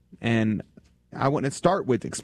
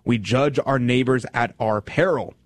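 solemn reading; 3 semitones higher, slower than usual. Acted. Reading St Augustine aloud.

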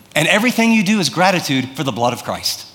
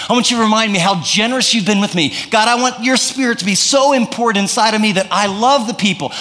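fervent prayer; 2 semitones higher than usual. Acted. Believer praying to God at the day's start, fervent and building. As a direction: build the prayer into eager, rising questions.

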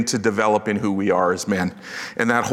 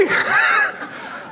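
high shouted laugh. Retold or imitated. Preacher laughs at his own kayak moment: high burst of laughter.

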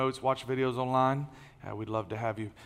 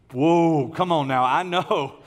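startled whoa; 5 dB louder, slower than usual. Real, not acted. Reacting to crowd elbowing.

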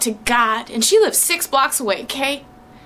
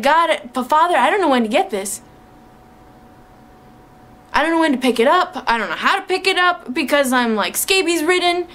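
frantic prayer; 3 semitones higher, faster than usual. Retold or imitated. Retold frantic prayer to God.

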